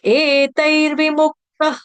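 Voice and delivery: slow, melodic chanting of the Sanskrit verse; verse recitation. Shown as a demonstration. Teacher chanting the whole Gita verse, slow and melodic. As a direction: draw out each word, chanting.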